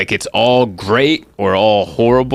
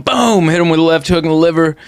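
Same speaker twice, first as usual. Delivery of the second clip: mock manly voice; 7 semitones higher than usual. Shown as a demonstration. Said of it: "don't I sound manly right there".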